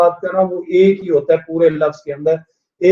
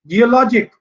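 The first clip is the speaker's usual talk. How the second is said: "जियोलॉजिक" with लॉज raised and strong; stress on लॉज; 3 semitones higher than usual. Shown as a demonstration. Teacher giving another IC example, stress before the ending. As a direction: hit लॉज inside "जियोलॉजिक". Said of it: "लॉज पे stress है".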